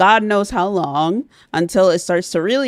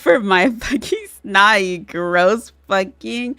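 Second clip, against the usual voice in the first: half-laughing mock insult at chat; laughing disgust; 3 semitones higher, slower than usual. Real, not acted. Streamer to a gross chatter, laughing insult. Chat asks to bid for snot.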